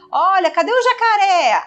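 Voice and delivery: put-on high, sing-song child-directed question; adult to toddler. Adult asking a toddler where the alligator is, high child-directed voice. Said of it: "crianças que aprendem a falar".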